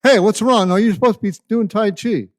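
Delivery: high, loud, quick pet voice; a talking dog, nagging. Pretend. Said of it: "my dog looks at me".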